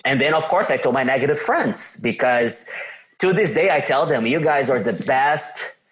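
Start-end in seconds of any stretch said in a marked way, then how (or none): 4.3-5.8 mock-grateful, chuckling through it; laughing sarcastic thanks. Telling negative friends off with a laughing, mock-grateful thank you.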